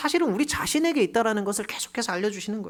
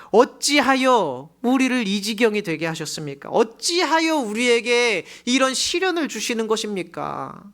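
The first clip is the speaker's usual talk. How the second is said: slow, louder pleading question; anguished plea; 5 semitones higher, 4 dB louder, slower than usual. Acted. Joshua pleading with God after defeat, anguished. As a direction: beg heaven for an answer. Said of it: "탄식".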